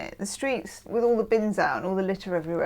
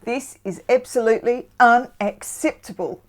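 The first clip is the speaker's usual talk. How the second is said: imitated Australian dating coach; mock-Australian TV coach laying down the law; Australian accent; 2 semitones higher than usual. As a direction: put on an Australian accent, sternly disapproving. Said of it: "dating coach man who used to go".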